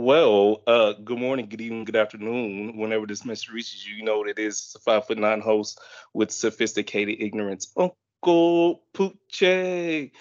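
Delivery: full-voiced show opener, name stretched out at the end; projected host greeting with a big finish; energetic host intro. Shown as a demonstration. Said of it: "can you do what you supposed to do".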